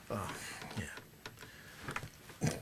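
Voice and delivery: normal talking voice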